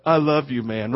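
mock-drunk affection, sinking low and soft; drunk person imitation. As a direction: play a sentimental drunk. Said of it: "drunk people who have no idea".

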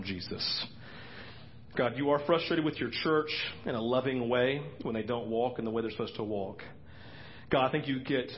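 prayer. Real, not acted. Closing prayer.

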